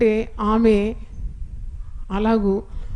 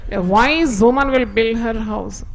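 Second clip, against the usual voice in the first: slow verse reading; much slower than usual. Real, not acted. Translating the verse in English.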